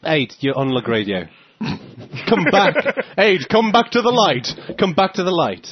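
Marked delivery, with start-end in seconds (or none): 2.3-5.7 spooky calling voice. Pretend. Calling a drifting friend back.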